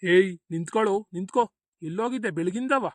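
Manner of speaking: loud, sharp challenge from an angry grandfather; scolding shout. Acted. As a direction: call the boy to a halt, loudly. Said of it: "ಯಾಕ್ ತಾತ ಹಿಂಗ್ ಕೂಗಾಡ್ತಿದ್ಯಲ್ಲ".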